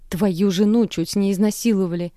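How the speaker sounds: shout, stress on жену; yelling. Acted. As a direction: yell at the sleeping father. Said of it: "Продолжаю кричать".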